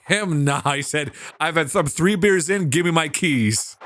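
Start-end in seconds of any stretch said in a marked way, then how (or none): 1.4-3.8 put-on lightly done Russian accent for the father; a hint of Russian in the voice. Father demanding his keys, light Russian accent. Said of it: "him a Russian accent".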